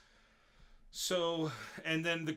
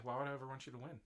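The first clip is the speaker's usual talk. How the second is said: mock taunt; 7 dB quieter, much faster than usual. Repeats quote in her voice.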